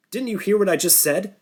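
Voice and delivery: a sudden, high, angry outburst; exploding. Acted. Sam yelling at Norton, exploding in anger. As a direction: blow up at Norton. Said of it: "Sam exploded".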